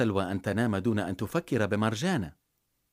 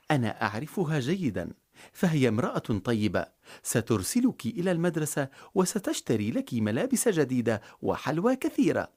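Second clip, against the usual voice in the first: ordinary delivery, nothing marked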